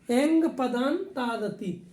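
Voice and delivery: "एंग पदांतादति" spoken slowly, each syllable drawn out; slow recitation. Shown as a demonstration. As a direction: recite the sutra slowly so students can follow. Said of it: "teacher repeats the sutra slowly". (धीमे-धीमे सूत्र का उच्चारण)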